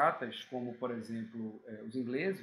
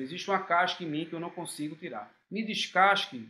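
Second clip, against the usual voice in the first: lightly voiced banana pleading, a bit louder at the end; a hint of a banana begging to be peeled; talking banana; 2 semitones higher, 6 dB louder than usual. Teacher voices a banana asking someone to peel it, mild pleading. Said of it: "A banana dizendo".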